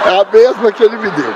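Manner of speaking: laughing at the regifted tea; laughing punchline. Real, not acted. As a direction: deliver the joke through laughter.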